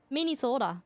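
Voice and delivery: Minnesota with rounded Minnesotan vowels; playful Minnesota accent. Retold or imitated. Mocking chat's home state, light Minnesota accent. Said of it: "Minnesota sounds more Canadian than me".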